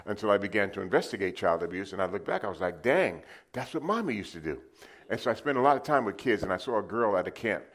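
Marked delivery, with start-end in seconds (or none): 2.8-4.6 high-pitched retold astonishment; acted realization. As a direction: act out the penny dropping. Repeats his acted realization.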